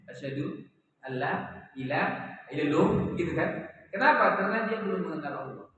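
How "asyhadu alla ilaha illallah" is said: new convert reciting. Retold or imitated. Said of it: "orang yang baru masuk Islam gimana mengucapkan".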